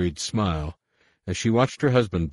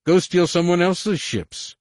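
much higher, slow warped voice; distorted comlink voice; 13 semitones higher, 6 dB louder, slower than usual. A narrator's reading. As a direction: sneer it through a garbled comm. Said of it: "A new voice crackled over the restricted comlink".

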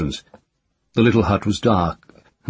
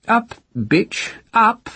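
cruel captor; much slower than usual. Acted. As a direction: bark at her like a dog. Man orders prisoner.

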